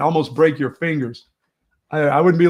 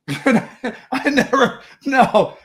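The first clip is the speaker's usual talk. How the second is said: laughing denial; 8 semitones higher, 4 dB louder, much slower than usual. Real, not acted. Laughs while denying the accusation.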